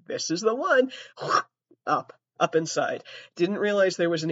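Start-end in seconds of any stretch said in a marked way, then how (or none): 0.1-0.9 a touch higher, naive younger self; proud and clueless; imitating herself. Younger self accepting the tampon, higher and naive. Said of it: "And I was like".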